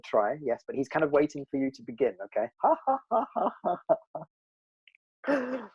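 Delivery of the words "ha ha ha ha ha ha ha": high, hollow mock laugh; fake laugh. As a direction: force out a fake "ha ha ha".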